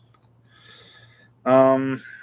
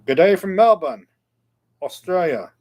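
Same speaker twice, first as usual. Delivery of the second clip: hammed-up Australian accent, higher and louder at the start; 6 semitones higher, 7 dB louder than usual. Host greeting a Melbourne viewer, in a mock Australian accent. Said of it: "that's my Australian accent".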